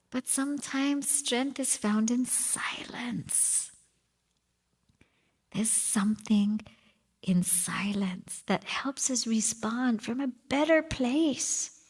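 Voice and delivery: hushed meditative teaching; intimate whisper. Acted. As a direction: lean in and whisper the lesson. Whispered reflection.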